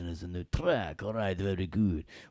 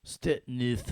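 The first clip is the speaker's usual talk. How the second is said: higher Step Neuf; 6 semitones higher than usual. Shown as a demonstration.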